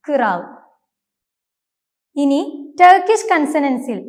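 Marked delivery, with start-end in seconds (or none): 0.1-0.4 "കിറാൽ" with a short vowel between k and r; correct Turkish pronunciation. Shown as a demonstration. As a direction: split "കിറാൽ" into kı-ral. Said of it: "എന്നാണ് ഉച്ചരിക്കേണ്ടത്".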